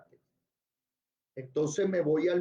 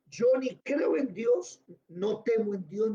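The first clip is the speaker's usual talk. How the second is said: higher-pitched, emphatic declaration; defiant judge; 4 semitones higher than usual. Acted. Teacher acting the judge who fears nobody, defiant declaration. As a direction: proclaim it as the proud judge. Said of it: "y el juez dice".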